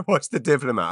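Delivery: laughing as she says the title again; a giggly echo of the show's name; laughing repeat. Real, not acted.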